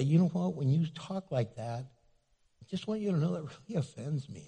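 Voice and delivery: softly sincere; gentle confronting. Shown as a demonstration. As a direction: tell them kindly it hurt. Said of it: "you can say".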